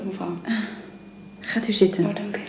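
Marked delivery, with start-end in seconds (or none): 1.4-2.0 whispered invitation. Acted. Sick wife whispering to visitor to sit. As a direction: breathe it out, too weak for voice.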